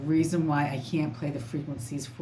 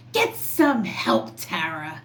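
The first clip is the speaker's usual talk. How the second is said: mock scream; slower than usual. Vlogger quoting a commenter's taunt, mock yell. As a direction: throw the commenter's jab back at her, hammed up. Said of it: "and then somebody screams".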